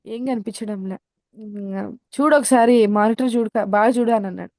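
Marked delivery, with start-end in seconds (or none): 2.2-4.1 louder, firm urging to look; insistent principal. Retold or imitated. Principal loudly urges the tearful student to look at monitor. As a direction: press her to really look at the screen.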